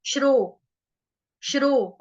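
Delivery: श्रो repeated, half sh joined to ro; shro drilled. Shown as a demonstration. Teacher drilling the class on a syllable, careful. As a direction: model श्रो twice, slow and clear. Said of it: "आधा श और रो".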